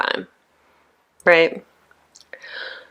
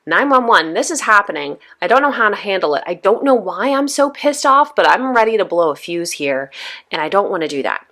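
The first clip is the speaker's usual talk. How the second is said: panicked call; 2 semitones higher than usual. Retold or imitated. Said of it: "somebody you can say".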